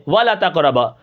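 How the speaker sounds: ولا تقربا with the alif of ولا clipped; alif dropped. Shown as a demonstration. Teacher showing the wrong clipped reading. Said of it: "الف کو جو ہے حذف کر دیں".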